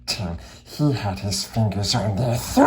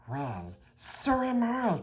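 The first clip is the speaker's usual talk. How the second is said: higher, pleading hobbit voice; Bilbo crying out; 11 semitones higher, 8 dB quieter than usual. Acted. Bilbo answers Gollum, crying out higher. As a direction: cry it out, lost too. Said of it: "cried Bilbo".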